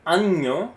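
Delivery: año said slowly with a clear ny sound, AHN-yo. Shown as a demonstration. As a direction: draw out año with the n-y of canyon. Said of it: "when you see año".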